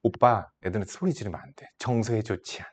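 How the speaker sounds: quiet, gentle reproof to a husband; 예전의 차분한 아내. Retold or imitated. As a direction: softly imitate a mild-mannered wife. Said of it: "예전에는". (남편을 조용히 타이르는 아내 흉내)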